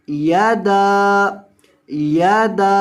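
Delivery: यादा with the da vowel stretched out; long dal vowel. Shown as a demonstration. Teacher demonstrates to students the lengthened madd. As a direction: draw out the a after d in यादा. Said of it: "दाल को लंबा करेंगे".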